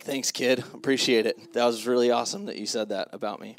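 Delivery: mock-grateful, low-key deadpan; sarcastic thanks. Dad answering his daughter's grandpa jab, deadpan sarcasm. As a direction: thank them drily, pretending to mean it.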